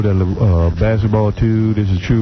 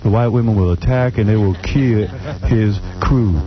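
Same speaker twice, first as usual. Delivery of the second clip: monotone. Pretend. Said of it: "I'm gonna say it in a monotone".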